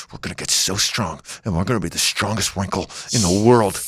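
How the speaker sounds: low, soft, pumped-up wrinkle voice; voicing his wrinkles as gym bros, low and soft; mock gym bro. Wrinkles bragging about getting strong, low mock gym bro.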